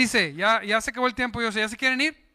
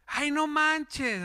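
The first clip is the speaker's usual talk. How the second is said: higher, slow, drawn-out groan; mock exasperated "no manches"; exasperated friend; 5 semitones higher, much slower than usual. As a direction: whine it out in disbelief. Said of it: "amigos ... me dicen".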